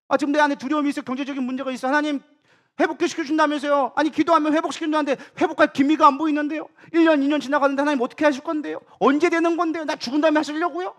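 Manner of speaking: high-pitched imitation of arguing with God; resentful complaint. Believer demanding answers from God, resentful protest. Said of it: "따지면서 원망하고 그러잖아요".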